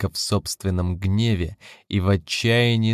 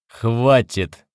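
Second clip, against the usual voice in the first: louder commanding cry; sharp stop; 3 semitones higher, 6 dB louder than usual. A narrator's reading. Husband cuts his wife off, loud and sharp. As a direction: cut her off hard. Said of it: "остановил её жестом Вильямс".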